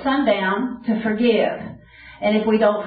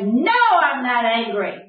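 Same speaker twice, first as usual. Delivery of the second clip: defensive denial; 2 semitones higher, slower than usual. Retold or imitated. Wife insisting to her husband she isn't angry, defensive. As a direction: deny being angry while plainly upset.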